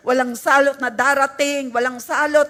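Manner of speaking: loud, fervent prayer of faith; declared prayer. Shown as a demonstration. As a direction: proclaim it boldly to God. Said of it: "Sabihin natin". (malakas at matapang na pagpapahayag ng panalangin)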